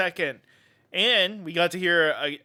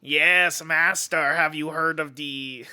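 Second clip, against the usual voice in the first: servile henchman impression; Peter Lorre; slower than usual. Igor asking his master about comics, Peter Lorre impression. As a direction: put on an obedient Igor voice. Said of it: "I'm doing a Peter Lorre".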